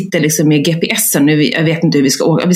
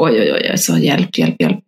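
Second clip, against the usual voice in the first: mock panic; 13 semitones lower than usual. Men panicking.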